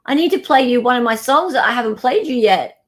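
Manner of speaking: loud, high, eager announcement; excited. Real, not acted. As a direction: hype up the song reveal. Excited lead-in to song.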